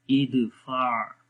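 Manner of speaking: "इदफा" drawn out, ending in a soft throaty ain. Shown as a demonstration. Teacher explains the ain to learners, "इदफा" ending softly in the throat. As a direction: close "इदफा" on a gently squeezed ain. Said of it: "आइन की आवाज़ को थोड़ा soft करेंगे".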